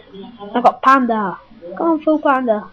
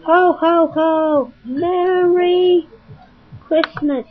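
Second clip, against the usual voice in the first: Santa Claus; 5 semitones higher, much slower than usual. Acted. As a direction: boom out a hammed-up Santa laugh. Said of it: "I'm really gonna clown Santa Claus".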